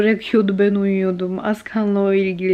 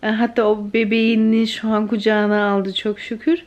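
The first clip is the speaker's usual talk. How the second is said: usual speaking voice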